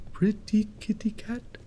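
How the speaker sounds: soft, breath-only whisper; whispered cat call. Pretend. Player luring the kitty cat, hushed whisper. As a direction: whisper it to lure the cat closer.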